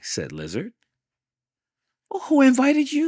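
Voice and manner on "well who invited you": rude retort. Acted. Hank rudely answers Lizard.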